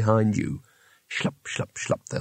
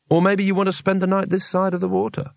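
taunting; 7 semitones higher than usual. Acted. Helena challenging Weems.

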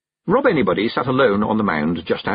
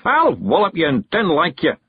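higher, mildly raised Scots threat; yelling; 8 semitones higher, 3 dB louder than usual. A narrator's reading. Rob threatens Big Yan to his face, mild yell. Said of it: "yelled Rob Anybody".

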